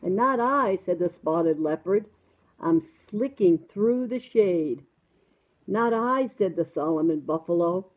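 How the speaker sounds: measured, sing-song storybook reading; reading to children. Acted. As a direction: read a picture book to a small child. Reads a picture book to child.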